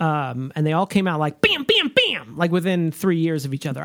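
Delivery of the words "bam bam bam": punchy high "bam" bursts; mock explosions, jumping up high; imitated bams. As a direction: fire them off like sound effects. Imitates films coming out rapid-fire.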